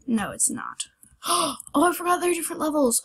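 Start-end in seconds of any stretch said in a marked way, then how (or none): 1.2-3.0 quick gasp, then fast surprised words. Real, not acted. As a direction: blurt it out in surprise. Sudden realization, gasp.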